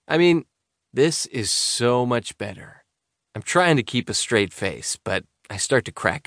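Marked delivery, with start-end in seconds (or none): 0.1-2.8 sarcastic. Acted. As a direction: say it deadpan, clearly joking. Joking about missing party.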